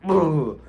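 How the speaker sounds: loud "ugh" of disgust; pissed-off grunt. Retold or imitated. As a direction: grunt in acted-out frustration. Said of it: "I'm pissed. Like, I'm just like".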